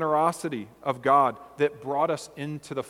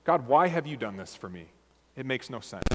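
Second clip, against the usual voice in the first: humbled wonder. Shown as a demonstration. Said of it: "You hear the difference in those perspectives?".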